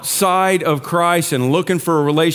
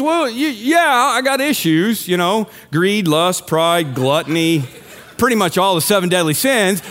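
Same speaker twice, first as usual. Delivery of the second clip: hammed-up Kentucky churchgoer; Kentucky accent; 3 semitones higher than usual. Self-righteous churchgoer listing good deeds, mock Kentucky accent. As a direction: boast of your goodness in a Kentucky accent. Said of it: "always go into Kentucky accent".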